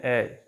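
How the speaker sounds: ए between a and e; mixed ae vowel; ए said as the ae of cat; a-e blend. Shown as a demonstration. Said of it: "ए और ई को इकट्ठा लिखते हैं".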